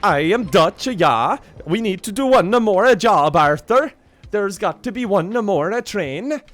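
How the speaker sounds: loud, high, hammed-up Dutch accent; mock Dutch accent. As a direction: belt it out in a comic Dutch accent. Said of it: "I can't do a Dutch one".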